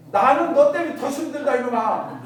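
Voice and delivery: loud, playful parental scolding; mock exasperated retort. Parent retorting to a complaining son, mock exasperation. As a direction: throw the complaint back in mock annoyance.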